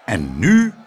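loud, emphatic announcement; addressing the crowd. A narrator's reading. Mayor resuming his speech to the crowd, proclaiming. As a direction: call for the crowd's attention. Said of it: "sprak de menigte toe door".

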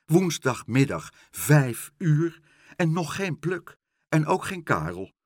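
worked-up concern; worried fretting. A narrator's reading. Pen frets about the missing friends.

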